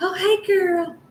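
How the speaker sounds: mock very high, gushy, chummy girlish voice. Acting out a greeting never given to someone who disrespected: mock chummy kiki-ing greeting. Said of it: "kiki-kikiing with somebody".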